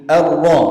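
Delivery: "Ar-ra" with a heavy, full ra; thick ra. Shown as a demonstration. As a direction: thicken the r and vowel in "Ar-ra". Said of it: "Harus ra-nya tebal".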